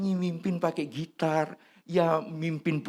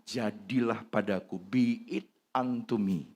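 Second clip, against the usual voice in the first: humble acceptance; 5 semitones lower, 4 dB quieter than usual. Retold or imitated. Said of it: "ketika dia menerima".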